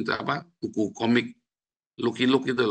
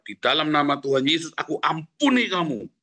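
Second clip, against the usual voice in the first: declaring forgiveness; 2 semitones higher, 4 dB louder than usual. Shown as a demonstration. Preacher models words to say instead of cursing, declaring forgiveness. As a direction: declare forgiveness firmly and loudly, stretching the final words. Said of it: "kamu berkata".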